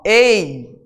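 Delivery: "ei" with a closed e; drawn-out "ei" said with a closed ê; closed vowel. Shown as a demonstration. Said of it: "é fechado".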